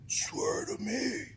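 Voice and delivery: drawn-out, hushed vigilante impression; Batman. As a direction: stretch it out like a menacing superhero. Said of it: "Mister Batman".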